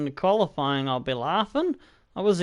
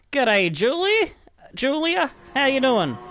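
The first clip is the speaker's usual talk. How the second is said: cheery greeting; 7 semitones higher, 3 dB louder than usual. Real, not acted. Greeting game character cheerily.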